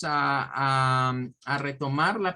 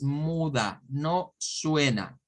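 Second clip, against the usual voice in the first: slow emphasis; much slower than usual. Shown as a demonstration. Teacher stressing a rule.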